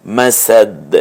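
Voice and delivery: মাসাদ with an echoing bounce on the final d; qalqalah. Shown as a demonstration. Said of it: "কলকলা করব".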